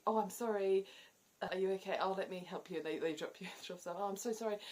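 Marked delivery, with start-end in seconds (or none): 0.1-2.8 high, bright flustered "Oh, I'm sorry"; fussy apology. Shown as a demonstration. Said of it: "you say". 4.0-4.6 fussy apology. Shown as a demonstration. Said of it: "you say it a lot".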